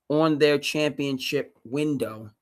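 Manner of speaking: loud, slow, emphatic declaration; booming sports-radio fury; fired-up rant. Real, not acted. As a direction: hammer it home with outrage. Passionate rant peaks.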